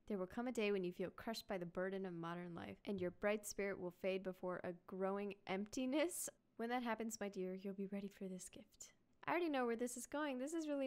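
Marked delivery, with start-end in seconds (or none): 0.1-8.9 story read-aloud. Acted. Reads grandfather's words in game.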